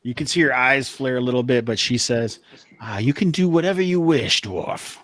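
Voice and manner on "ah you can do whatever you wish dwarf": sultry sorceress. Acted. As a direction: grant the wish seductively, pitch falling at the end. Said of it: "it was just the sultry voice".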